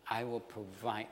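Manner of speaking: mildly soft, comforting promise; kindly. Acted. Joseph promising to provide, kindly and comforting. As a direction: reassure them kindly and quietly. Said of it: "spoke kindly".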